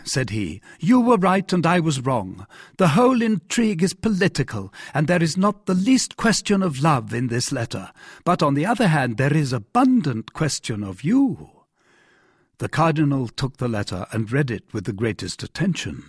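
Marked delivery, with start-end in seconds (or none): 0.8-11.5 the relieved king greets his minister; delighted king. Acted. King speaks to cardinal.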